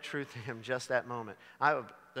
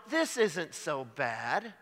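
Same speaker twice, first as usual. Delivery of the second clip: drawn-out mock contentment; much slower than usual. Preacher quotes prodigal, drawn out.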